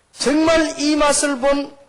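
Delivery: high, loud, drawn-out preaching. Acted. Preacher to congregation about church leaders, preaching forcefully. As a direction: proclaim it slowly and loudly, pitched high.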